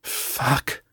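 breath-only whispered curse. A narrator's reading. Kate realising the plan failed, whispered. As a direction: whisper it in dismay. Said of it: "she whispered".

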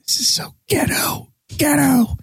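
breathy whisper, then a squeak. Retold or imitated. Grandma whispering in his ear at the funeral, hushed. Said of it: "my Oma whispering".

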